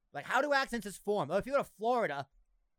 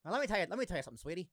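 lightly mimicked vintage screen talk; a touch of old-time TV patter; old black-and-white TV voice; much faster than usual. Podcaster playing a TV man to his sweetie, mild vintage voice. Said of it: "old black and white T V".

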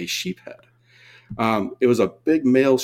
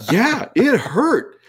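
self-pity; 12 semitones higher, 5 dB louder, much slower than usual. Retold or imitated. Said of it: "I'm, like, going".

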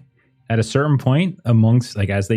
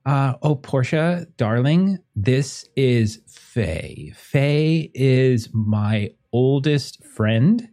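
high, slow, delighted gushing voice; overjoyed to see an old friend; gushing host; 8 semitones higher, slower than usual. Acted. Warwick gushes greeting old friend.

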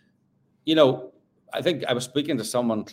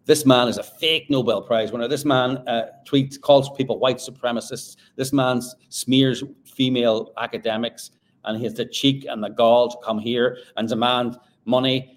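emphatic, mildly outraged accusation; mock indignation; 4 dB louder than usual. Commentator voicing the jury's verdict on Mann, mock indignation. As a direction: build a list of charges with punchy stresses.

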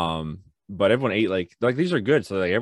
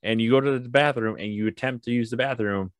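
higher, lively mock coaxing; lightly acted parental encouragement; 5 semitones higher than usual. Dad reasoning with his son in the bathroom, lightly acted encouragement. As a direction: retell yourself cheering a child along.

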